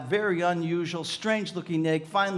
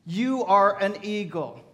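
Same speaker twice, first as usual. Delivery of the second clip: preached affirmation; 4 semitones higher, 7 dB louder than usual. Real, not acted. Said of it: "Today, my friend".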